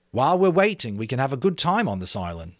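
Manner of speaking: lightly voiced boy, upbeat; rally the others; boy Ralph, cheerful.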